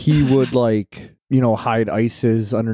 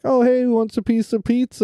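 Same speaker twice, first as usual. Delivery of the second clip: fake innocent; 13 semitones higher than usual. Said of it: "and I was like".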